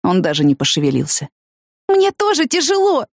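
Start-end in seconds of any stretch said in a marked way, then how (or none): 1.9-3.1 high, slow anguished cry; tearful cry. A narrator's reading. Woman crying at silent friend, slow high anguished cry. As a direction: throw your pain at him. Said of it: "я раз за разом кричала ему".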